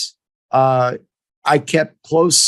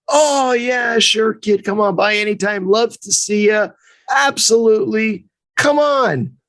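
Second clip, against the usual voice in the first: airy, eager mock coach, higher; breezy coach on the phone; 6 semitones higher than usual. Retelling the coach's phone promise, breezy and high. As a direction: toss off the invite like a friendly old coach.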